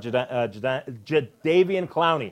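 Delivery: stumbling over the name twice; stuttering. Real, not acted. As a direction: trip on the name, restart it. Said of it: "you stuttering over there?".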